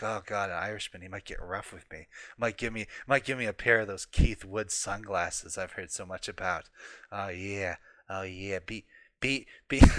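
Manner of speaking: mock swooning, a touch low and creepy; Greg Johnson. Teasing Keith Woods about an admirer's crush, mock creepy. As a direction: lightly act out a creepy crush. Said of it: "This is getting creepy now".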